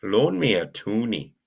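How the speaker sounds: light Minnesota-tinged Canadian; a hint of Canadian accent. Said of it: "My Canadian accent goes very much into Minnesota".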